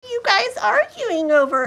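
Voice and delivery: high-pitched imitation of old ladies. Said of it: "just these old ladies".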